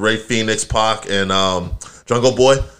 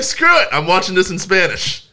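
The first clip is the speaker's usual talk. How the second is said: mock defiance; 6 semitones higher than usual. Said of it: "So I like".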